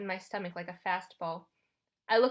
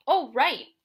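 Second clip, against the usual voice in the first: higher, louder sudden agreement; chiming in; 6 semitones higher, 10 dB louder than usual. Acted. Grover, nudged, backs up his friend, chiming in. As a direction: chime in as if just prompted. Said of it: "he chimed in".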